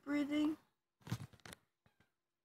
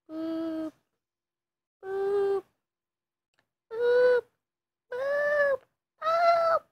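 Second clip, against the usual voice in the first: boops climbing higher and louder each time; rising boops; 13 semitones higher, 9 dB louder, much slower than usual. Pretend. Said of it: "Watch just what happens".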